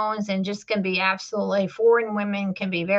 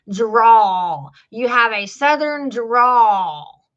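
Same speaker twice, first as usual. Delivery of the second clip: mock Southern drawl; 6 dB louder, much slower than usual. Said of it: "And they'll say".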